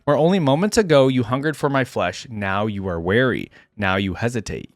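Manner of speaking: deliberate, solemn narration with defiant peaks; dramatic story reading. A narrator's reading. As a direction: read a hunted warrior's account with gravity. Reads first-person story aloud.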